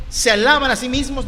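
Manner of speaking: mildly scornful verse quote; sarcastic. Acted. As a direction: repeat the charge with pointed irony. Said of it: "está hablando con un tono de sarcasmo".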